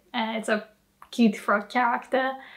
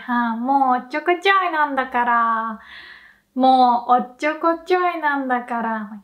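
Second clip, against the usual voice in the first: fond teasing; much faster than usual. Shown as a demonstration. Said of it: "If someone is being clumsy".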